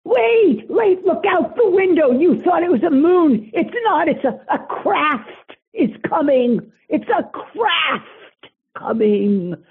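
high, urgent cry of alarm; alarmed excitement. Acted. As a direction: point out the window in panic. Spotting craft out the window.

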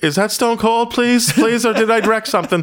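high, fast panicky pleading; mock scared. Fan in the shower hearing glass break, mock scared. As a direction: squeak it out like someone caught in the shower.

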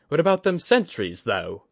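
put-on a gruff, cocky older woman weighing weapons; Kudaka's rough voice.

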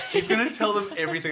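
retold giddy anticipation, lifted in pitch. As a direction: replay your gleeful anticipation. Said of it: "getting, like, giddy".

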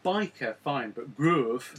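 "groove" drawn out long with a Geordie oo; plain "biker", then stretch "groove" the Newcastle way; slow, long-vowelled Geordie "groove". Shown as a demonstration. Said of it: "has to go into the Geordie".

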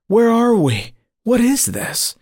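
very high, anxious questions; alarmed questioning. A narrator's reading. Dreamer asks his guide about the fiery portal, alarmed. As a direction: ask in alarm, pitch leaping up.

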